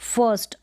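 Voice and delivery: फर्स्ट in one syllable, R unheard; silent-R pronunciation. Shown as a demonstration. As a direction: say फर्स्ट as "fuhst", no R. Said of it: "अब र का sound सुनाई नहीं दे रहा होगा".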